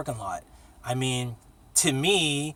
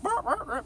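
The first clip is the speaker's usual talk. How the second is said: higher imitated bird squawk; softer playful gull noise; mock seagull squawk; 3 dB quieter than usual.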